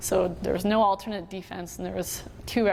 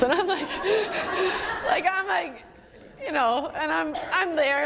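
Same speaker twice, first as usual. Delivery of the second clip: much higher, broken by laughter; real laughing speech; 9 semitones higher than usual. Real, not acted. Recalling snacking on M and M's during game, laughing. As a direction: try to keep talking through the giggles.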